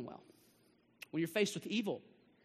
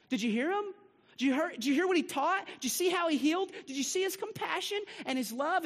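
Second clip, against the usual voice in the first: from hushed despair building to high, loud wonder; grieving disciples; 7 semitones higher, 4 dB louder than usual. Retold or imitated. Pastor voicing the grieving disciples, hushed building to loud. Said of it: "you know what the disciples are probably thinking?".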